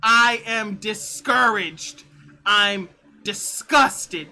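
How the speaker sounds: slow deliberate building. Real, not acted. Slow deliberate escalating complaint.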